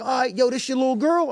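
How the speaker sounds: high mock Blood, curious; gang member voice. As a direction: pitch it way up and ask. Gang member asks about daughter.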